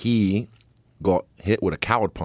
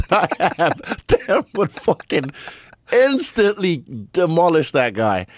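laughing; 9 semitones higher, 3 dB louder, slower than usual. Real, not acted. Laughing about teammate Dan.

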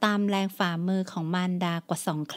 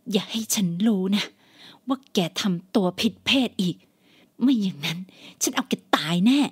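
menacing threat. Acted. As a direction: threaten her, hissing then hard. Mother threatens daughter.

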